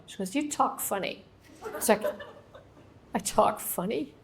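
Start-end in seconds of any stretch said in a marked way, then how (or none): 0.3-1.2 higher, softer remark from a waitress; lightly voiced waitress. 3.2-4.1 questioning echo with a rising end; mock disbelief. Teller's baffled comeback to the waitress.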